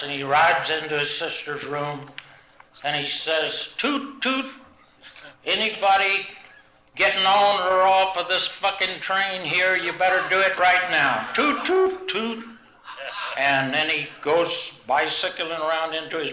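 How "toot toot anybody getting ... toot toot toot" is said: put-on high-pitched kid calling like a train conductor, toots way up high; bossy little boy playing train on his bike; childish conductor call, squeaky toots.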